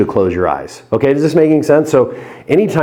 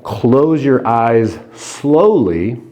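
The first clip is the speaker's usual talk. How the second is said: slow hypnotic command; much slower than usual. Shown as a demonstration. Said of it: "instead of saying".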